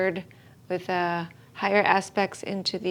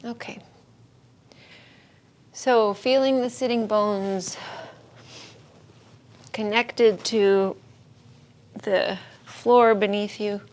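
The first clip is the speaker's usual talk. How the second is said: unhurried yoga-teacher guidance with long pauses; calm, spacious meditation instruction; guided meditation. Real, not acted. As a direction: settle the class into stillness, phrase by phrase. Leads seated body meditation.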